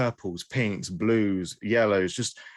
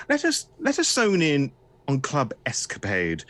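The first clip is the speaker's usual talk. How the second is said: lively, raised storyteller delivery; game master's scene setting; 4 semitones higher than usual. Acted. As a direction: paint the city for the players, lifting key phrases.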